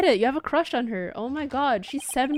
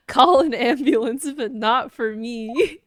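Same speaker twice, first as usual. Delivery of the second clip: quoting a meme; slower than usual. Retold or imitated. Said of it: "summon an ambulance".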